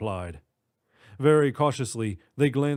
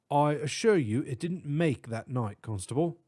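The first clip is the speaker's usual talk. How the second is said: put-on British accent; 3 semitones higher than usual. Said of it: "distinct British accent".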